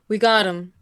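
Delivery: half yell. Acted. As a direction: call it over to the others. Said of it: "kinda, like, yells over".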